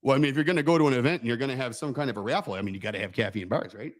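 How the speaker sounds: lightly voiced Adam Sandler, mumbly and rushed; a light take on Adam Sandler; Adam Sandler impression. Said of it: "that's a spot on Adam Sandler".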